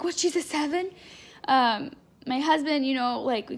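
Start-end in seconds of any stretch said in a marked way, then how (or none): 0.0-0.9 a higher, astonished doula voice; lightly voiced doula, surprised by the news. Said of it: "She's like".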